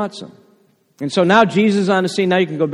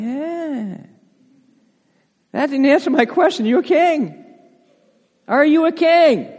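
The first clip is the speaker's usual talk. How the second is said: impatient Pilate; 9 semitones higher than usual. Acted. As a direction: push him for a straight answer. Pilate presses Jesus impatiently.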